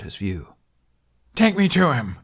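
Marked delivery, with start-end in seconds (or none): 1.3-2.2 high, loud command; demanding. Acted. Hiccup demanding to be taken to his dragon. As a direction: order them to take you. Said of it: "Hiccup demanded".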